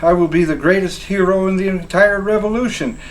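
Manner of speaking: excited daydreaming. Acted. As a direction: get carried away imagining fame. Soldier daydreaming of glory.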